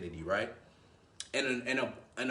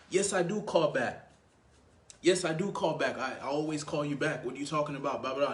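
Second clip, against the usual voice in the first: emotional defensive reply; 2 semitones higher than usual. Shown as a demonstration. Man defending himself to a girl, mildly worked up. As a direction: protest as if accused. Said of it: "The emotional response would be like".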